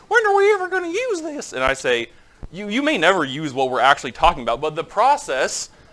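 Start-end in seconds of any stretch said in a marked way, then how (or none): 0.1-1.5 put-on very high, squeaky Southern accent. Mimicking how the listeners sound asking a question, high, squeaky Southern accent. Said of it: "High, squeaky Southern accent".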